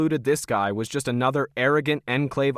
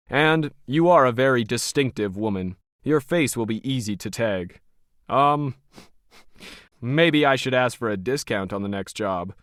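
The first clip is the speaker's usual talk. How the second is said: Logan, cold and smug. Acted. Smug Logan sizing up Krisha as hired help, lightly voiced.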